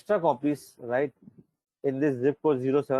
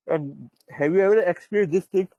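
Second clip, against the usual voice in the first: talking through a yawn; 4 semitones higher than usual. Real, not acted. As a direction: say it mid-yawn. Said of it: "Sorry, I'm yawning".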